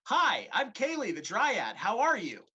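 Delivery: sweet forest spirit greeting; cheery nymph, voice lifted; bright dryad voice. Acted.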